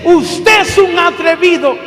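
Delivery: a hammed-up angry cry; mock angry shout. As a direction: play the offended woman snapping back. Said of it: "ella me grita".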